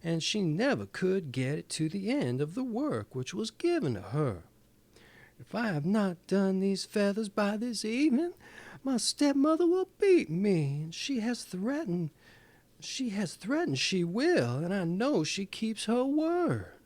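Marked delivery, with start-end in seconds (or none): 5.4-16.7 put-on frightened girl. A narrator's reading. Frightened girl pleads with old woman.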